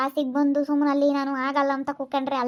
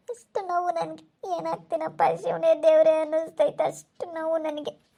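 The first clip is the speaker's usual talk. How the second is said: crying in pain; 2 semitones higher than usual. Acted. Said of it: "ಇಷ್ಟು ನೀನ್ ಕಣ್ಣೀರ್ ಹಾಕ್ತಾ ಇದೀಯ".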